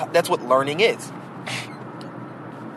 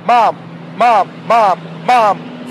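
put-on higher, louder nagging child calling Mom; whiny kid calling; 3 semitones higher, 5 dB louder, much slower than usual. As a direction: keep calling like a kid who won't give up. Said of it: "there are kids that will go".

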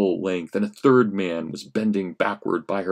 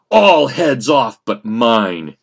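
crying out; 8 dB louder, slower than usual. Acted. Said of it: "could cry confidently".

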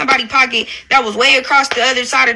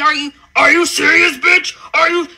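mocking her. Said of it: "what made you keep saying".

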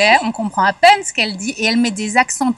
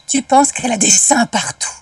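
lightly acted director's note, climbing higher on the repeat; mimicked direction, ending high-pitched; imitated director's direction; 5 semitones higher than usual. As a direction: playfully quote a director, pitch rising as it goes. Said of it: "C'était ça, sa direction".

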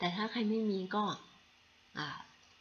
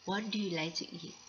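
very slow, careful English demo; teacher modelling a phrase slowly; slow model sentence; much slower than usual. Shown as a demonstration. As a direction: spell it out slowly for learners. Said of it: "อย่างเช่นถ้าเราอยากจะพูดคำว่า".

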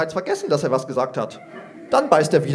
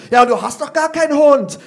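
put-on grumbling kid; 8 semitones higher, 5 dB louder than usual. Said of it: "motzt Paulchen".

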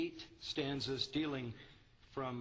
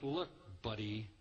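disdain; 3 semitones lower than usual. Acted.

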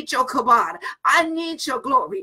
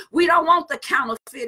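shout. Real, not acted. Preacher calling out to congregation.

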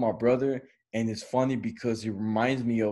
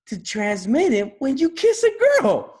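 much higher, louder squeaky line; much higher, louder comic stoner squeak; odd delivery; 8 dB louder than usual. Retold or imitated. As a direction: squeak it out absurdly. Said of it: "I don't know why he said it like that".

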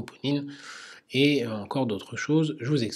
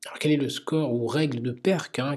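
normal talking voice

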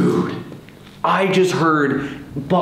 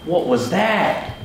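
startled; 7 semitones higher than usual. Real, not acted. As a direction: jump at a noise and call your friend. Startled by something on camera.

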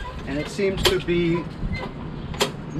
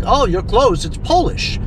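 retold attendant; 8 semitones higher than usual. Voices the attendant's reply.

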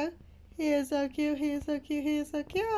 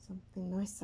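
whisper; 3 semitones lower, 6 dB quieter than usual. Real, not acted. Hoping for good pet.

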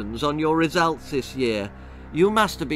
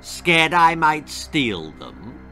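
mocking laugh; 3 semitones higher, 5 dB louder, much slower than usual. A narrator's reading. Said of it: "laughed Anthony".

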